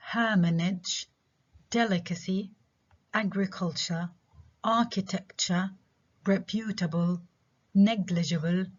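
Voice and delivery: melancholy through alimony, each front-stressed; measured list, leaning on the openings from melancholy to alimony; stress first syllable. Shown as a demonstration. Teacher repeating the examples, melancholy to alimony front-stressed. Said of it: "stress on the first syllable".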